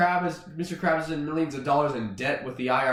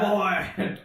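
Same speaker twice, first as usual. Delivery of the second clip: Mr. Krabs. Acted. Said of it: "He says".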